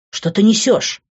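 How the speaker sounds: startled, indignant question; exclaiming. A narrator's reading. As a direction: exclaim in disbelief. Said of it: "воскликнул он".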